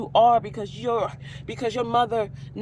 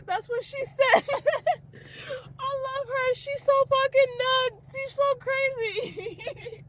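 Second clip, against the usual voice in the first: very high, squeaky laughing voice; helpless laughing; 14 semitones higher, slower than usual. Real, not acted. Talking fondly about the crazy woman, cracking up.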